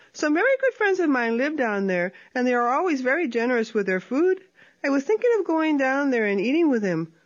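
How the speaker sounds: light, quick sly coaxing; lightly voiced sly opossum. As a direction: lure him in brightly. Tlacuache luring coyote.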